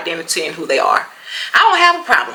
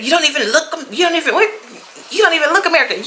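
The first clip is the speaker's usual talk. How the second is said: a touch higher, echoing his words; lightly mocking the man; 9 semitones higher, much faster than usual. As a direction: repeat his jab with mild mockery. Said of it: "repeating the man's words".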